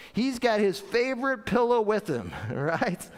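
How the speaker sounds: ordinary delivery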